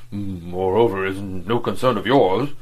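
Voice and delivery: a lightly voiced stolid agent, slow; Verloc's voice. A narrator's reading. Agent answering his employer, slow and heavy.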